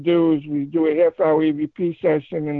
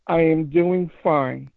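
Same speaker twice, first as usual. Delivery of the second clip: slow, deliberate mock ghost voice from the tape; imitating the spirit voice; slower than usual. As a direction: draw each word out like the recording. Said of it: "just like you heard me".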